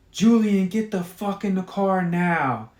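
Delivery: loud, fed-up mother yelling. Acted. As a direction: bark the name across the lot. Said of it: "yells one more time".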